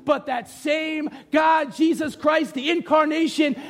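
slow, emphatic preacher delivery; emphatic preaching. Real, not acted. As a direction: preach it in measured, weighty phrases.

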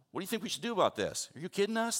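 high, fast mock indignation; sarcastic, incredulous. Preacher acts out the disciples' spirit toward Jesus, sarcastic and incredulous. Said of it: "That was their attitude".

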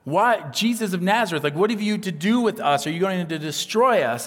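retold scream. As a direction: cry out in challenge, short of a scream. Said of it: "And, and he screams out".

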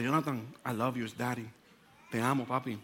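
más bajo y suave, con ternura; háblale con cariño a tu bebé en la barriga; papá hablándole al bebé. Retold or imitated. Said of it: "le hablaba a mi niño". (voz tierna y bajita de papá)

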